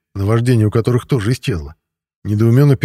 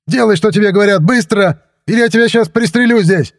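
very high, loud frenzied order; wild yelled threat; 11 semitones higher, 4 dB louder than usual. A narrator's reading. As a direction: threaten him at a yell, barely controlled. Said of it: "дурным голосом заорал полицейский". (орать с угрозой, дурным голосом)

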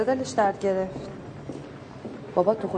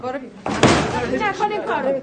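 louder, slow, higher sobbing cry; crying plea; 7 semitones higher, 5 dB louder, slower than usual. Acted. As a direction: beg him to stop through tears.

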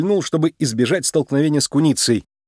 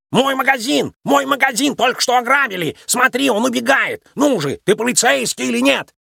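high, urgent panicked yelling; panicked shopkeeper yelling for help; frantic shouting; 10 semitones higher than usual. A narrator's reading. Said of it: "прокричал он".

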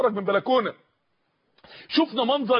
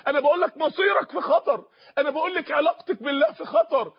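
raised, insistent preacher's pitch; urgent warning; 4 semitones higher than usual. Real, not acted. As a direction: press the warning home in a higher voice. Repeated warnings at sermon's climax. (تحذير ملحّ بصوت مرتفع النبرة)

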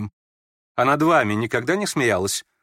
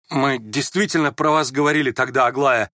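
ordinary delivery, nothing marked

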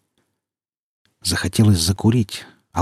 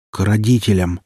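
firm and clear. Acted. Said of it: "произнёс уже уверенно и чётко".

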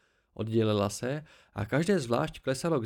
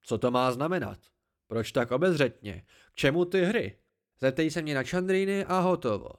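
haughty tree creature; 3 semitones higher, 4 dB louder than usual. Acted. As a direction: talk down to the boy from the branches, pleased with yourself.

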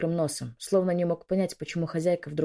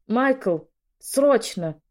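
higher, louder summons; urgent call; 5 semitones higher, 5 dB louder, much slower than usual. A narrator's reading. Lady summons helper for the patient, urgent call. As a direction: call out sharply for someone out of the room. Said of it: "позвала она".

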